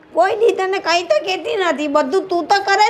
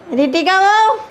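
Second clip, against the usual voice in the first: calling out; 3 semitones higher, 4 dB louder than usual. Acted. Mother-in-law calls daughter-in-law.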